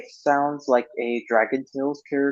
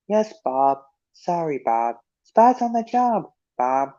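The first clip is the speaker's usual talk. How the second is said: Spud reply; 3 semitones higher, slower than usual. Retold or imitated.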